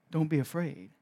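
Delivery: put-on dad arm round child in graveyard, calmly authoritative; with authority. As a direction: settle the child with quiet command. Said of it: "with authority".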